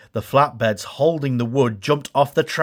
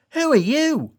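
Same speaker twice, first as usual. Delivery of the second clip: high, surprised call; startled question; 13 semitones higher than usual. Acted. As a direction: ask in wide-eyed surprise. Thomas meets strange engines.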